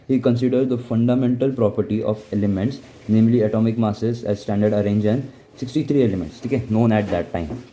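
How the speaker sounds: slow, deliberate dictation pace; slow textbook reading voice; reading notes aloud. Acted. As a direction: read it out word by word for notes. Teacher reading notes aloud slowly.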